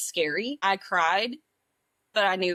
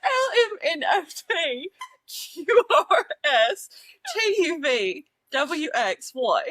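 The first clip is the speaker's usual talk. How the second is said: higher-pitched mock-British alphabet; attempted British accent; 5 semitones higher than usual. Shown as a demonstration. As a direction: recite letters in an uncertain British accent. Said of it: "Is this British?".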